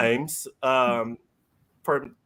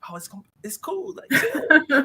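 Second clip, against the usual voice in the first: high, laughing, quick; giggly pitch-up telling her to chill; laughing reassurance. Retold or imitated. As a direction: laugh while brushing her off. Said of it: "and I'm like".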